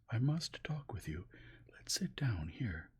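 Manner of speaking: hushed, nervous plea; frightened hush. A narrator's reading. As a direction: draw her aside in a frightened whisper. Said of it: "with a frightened smile".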